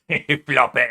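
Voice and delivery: loud cheerful call to the character; excited call. Real, not acted. Streamer greets Floppy with a loud call. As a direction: call out the name happily.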